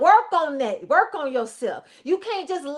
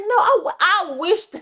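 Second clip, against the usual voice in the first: God as a high, sassy comedian; a comic God daring anyone to try it; Cedric the Entertainer; 4 semitones higher than usual. Retold or imitated. God defends Cain in a high comic voice. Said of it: "God came in like Cedric the Entertainer".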